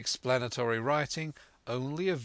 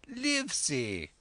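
excited call; 7 semitones higher, slower than usual. A narrator's reading. Squire hails the doctor.

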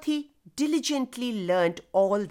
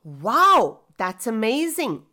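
thrilled yell; 5 dB louder than usual. Acted. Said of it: "one child yelled out a thrilling cry".

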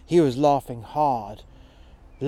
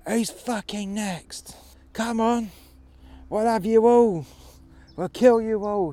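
much higher and louder, slow defiant yell; shouted threat; 8 semitones higher, 3 dB louder than usual. Retold or imitated. Old man daring the whole Anunnaki army, roaring. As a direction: scream the challenge at the enemy. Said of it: "he said".

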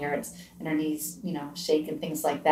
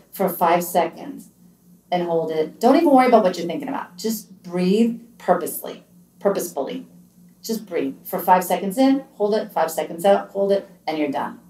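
slow guiding count. Shown as a demonstration. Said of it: "breathe in through your nose".

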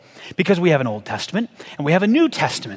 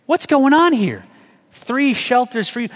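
confused disbelief; 5 semitones higher, slower than usual. Retold or imitated. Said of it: "you just go".

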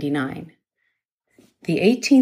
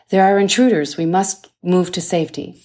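steady and firm, with a louder start; calm but forceful; 4 dB louder than usual. Acted. Nurse tells her frightened boss to move, calm but forceful. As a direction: take charge without panicking. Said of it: "In a calm but forceful tone".

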